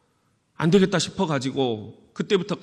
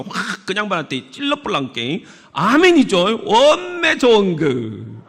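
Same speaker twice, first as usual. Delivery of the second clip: Jeolla dialect psalm; 3 semitones higher, 4 dB louder than usual. Shown as a demonstration. Pastor performs Psalm 23 in Jeolla dialect for the congregation. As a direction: recite it in broad Jeolla, gaining power. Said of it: "전라도 사투리 여러분들 아시죠?".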